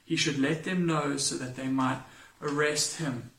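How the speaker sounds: measured, formal Bible reading aloud; solemn lectern reading voice; scripture reading. Acted. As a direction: read the passage steadily, like from the pulpit.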